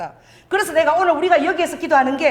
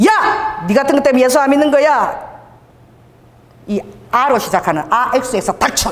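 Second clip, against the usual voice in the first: retold angry yell. Rude passenger yelling at the preacher on the subway, mock angry. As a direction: bark it at the preacher, moderately.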